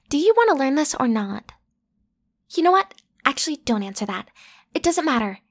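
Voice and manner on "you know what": irritated outburst. Acted.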